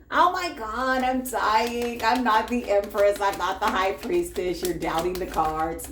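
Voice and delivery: lightly whining imitation of a self-doubter; mock despair. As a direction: mimic a melodramatic complainer, winding down gradually. Mimics a despairing, doubting listener.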